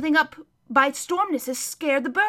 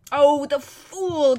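slow, louder anguished groan; 5 dB louder, much slower than usual. Acted. Hermit to the children, groaning over Shasta's folly. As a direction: groan it out in dismay. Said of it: "groaned the hermit".

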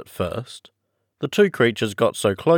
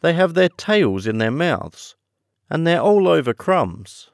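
high, loud heroine voice; high storybook Alice, explaining; 9 semitones higher, 6 dB louder than usual. Acted. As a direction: answer as Alice, pitched well up.

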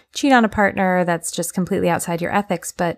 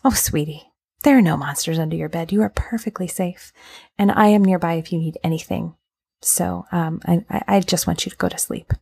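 soothing parent. Retold or imitated. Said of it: "You could say".

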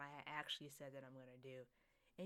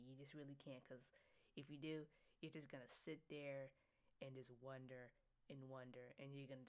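1 whispered advice; 3 semitones lower, 8 dB quieter than usual. Real, not acted. Intimate advice about negativity.

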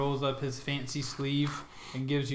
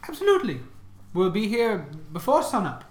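man doing a woman's voice; 4 semitones higher than usual. Acted. GM voicing the cart lady.

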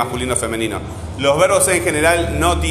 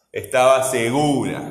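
slow "Estaba seGUUra", stretching GU; "segura" with a long, marked GU; stressed syllable drawn out. Shown as a demonstration. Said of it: "Cuál es la siguiente sílaba tónica".

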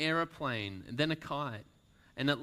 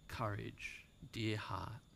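much softer, hushed and tender; whispered; 2 semitones lower, 9 dB quieter, slower than usual. Acted. Albatross whispering comfort to Lucy. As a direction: breathe it gently to her. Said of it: "it had whispered to her".

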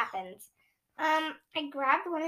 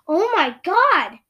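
loud, slow, high cry; shout; 5 semitones higher, 10 dB louder, slower than usual. Acted. Child shouting on seeing the creature. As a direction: yell it out in shock. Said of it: "I shouted".

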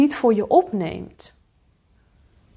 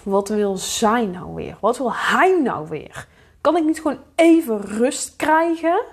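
mildly annoyed; 2 semitones higher than usual. Acted. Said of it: "Of je wordt boos".

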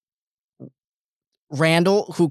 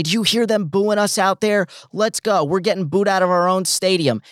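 higher-pitched imitated coach rallying his players; imitating a coach at halftime, pitched up; mock coach pep talk; 5 semitones higher than usual. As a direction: play the coach firing up the locker room.

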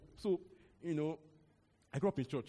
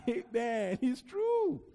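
much higher and louder, nearly shouted; emphatic exclamation; 5 semitones higher, 6 dB louder, much slower than usual. Real, not acted. Preacher insisting on his point amid congregation laughter, excited exclamation. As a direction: hit it like a punchline.

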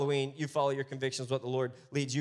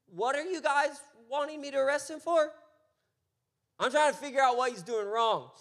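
higher, bewildered Pilate pleading to understand; baffled Pilate; 5 semitones higher than usual. Retold or imitated. Pastor voicing Pilate to the crowd, higher and bewildered.

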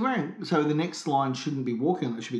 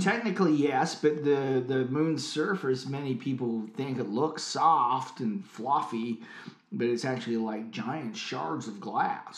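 put-on slow, measured, loosely American accent; Neil Armstrong; slower than usual. Astronaut explains the moon's surface, slow faked American accent. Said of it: "my American accent".

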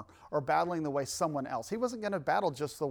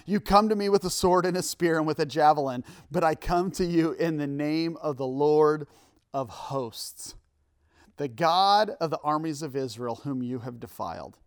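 impassioned scripture reading; 5 dB louder than usual. Acted.

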